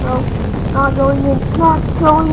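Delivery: loud, firm no; loud panicked refusal. Real, not acted. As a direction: shout it at the screen. Refusing the black hole.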